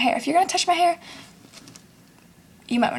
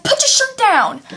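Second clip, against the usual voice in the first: high, slow, loud scold; mock scolding yell; 10 semitones higher, 5 dB louder, slower than usual. Telling girls at school to cover up, high slow yell. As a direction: call it out like a disgusted hall monitor.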